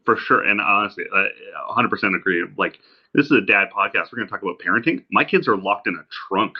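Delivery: distant laptop mic sound; tinny, far-off recording; from another room. Real, not acted. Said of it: "me sounding like I'm talking from the other room".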